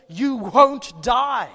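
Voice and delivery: slow, booming mock shout; Satan's loud denial. Preacher voicing Satan to the congregation, slow booming shout. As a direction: drag it out and boom every word. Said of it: "Says Satan through the serpent".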